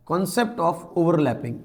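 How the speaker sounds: heading read out slowly for notes; slow dictation. Shown as a demonstration. Teacher slowly dictating a heading to students. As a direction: say each word slowly so students can write it. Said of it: "next आपकी heading हो जाएगी बेटा".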